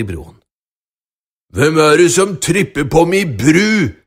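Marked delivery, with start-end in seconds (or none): 1.5-3.9 loud troll bellow; troll screaming. Acted. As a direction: roar it like an angry troll. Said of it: "skrek trollet".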